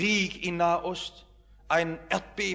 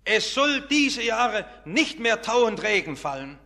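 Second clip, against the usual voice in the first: prophetic proclamation, slightly raised; called out; 3 semitones higher than usual. Acted. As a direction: proclaim the judgement to the king.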